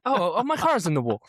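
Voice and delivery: politely dismayed Englishman impression; Ollie Behrman. Driver realising he has crashed, mock-English dismay. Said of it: "that's Ollie Behrman".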